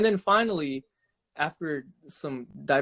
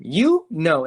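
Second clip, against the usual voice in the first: mock drunk dismissal; 3 semitones higher, 6 dB louder than usual. Drunk woman dismisses friend.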